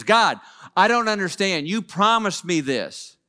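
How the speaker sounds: retold cranky outburst at God. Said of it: "he kinda gets cranky".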